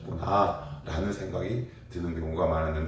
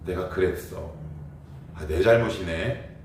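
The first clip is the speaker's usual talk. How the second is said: lightly; 3 semitones lower than usual. Retold or imitated. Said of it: "근데 가볍게 얘기하죠".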